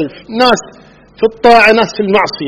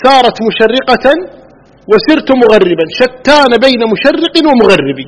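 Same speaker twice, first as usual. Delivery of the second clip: slow, higher-pitched recital of a line of poetry; verse recitation; 5 semitones higher, slower than usual. Acted. Lecturer quotes a poet to illustrate divergence, slow verse recitation. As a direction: recite the verse slowly, pitched up, drawing out the words. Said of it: "كما قال الشاعر".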